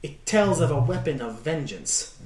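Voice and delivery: lightly voiced mystic fortune teller. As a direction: read the card like a solemn seer. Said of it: "She goes".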